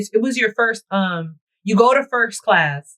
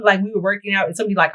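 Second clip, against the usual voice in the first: ordinary delivery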